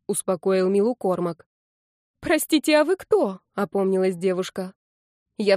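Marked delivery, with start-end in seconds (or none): 2.2-3.4 high, surprised question; suddenly noticing a stranger; startled girl. A narrator's reading. Girl startled by the troll, high surprise.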